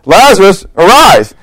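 a preacher calls a dead man out, booming; commanding call. Pretend. Preacher acting out Jesus at the tomb, commanding call. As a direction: proclaim it like the tomb scene. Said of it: "I like this part, so I'm gonna do it".

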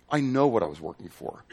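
ordinary talk

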